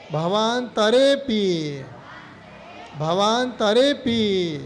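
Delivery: slow, drawn-out verse recitation; recitation for repetition. Shown as a demonstration. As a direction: stretch the vowels, pausing for pupils to repeat. Teacher models verse for repetition.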